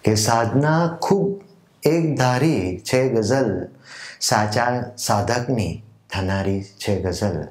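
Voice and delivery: slow, measured verse with lilting, drawn-out phrase ends; ghazal recitation. Acted. Poet presenting his own ghazal to literature lovers, measured recitation. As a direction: recite it like a mushaira poet, letting key words swell and fall.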